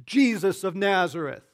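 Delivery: high, loud demon shriek; possessed man crying out. Acted. Possessed man crying out at Jesus, a loud high demonic shriek. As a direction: cry out like a tormented spirit. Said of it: "an evil spirit cried out".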